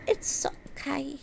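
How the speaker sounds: whispered self-comfort; soft hushed reassurance. Pretend. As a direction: breathe "It's okay" gently.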